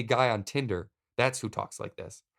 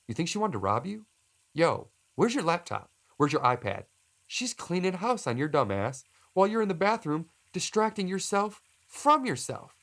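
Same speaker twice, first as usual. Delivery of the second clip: high-pitched, urgent mock panic; agitated scolding, pitch way up; alarmed self-warning; 8 semitones higher than usual. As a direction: warn yourself you are being played. Acted warning to himself in mirror.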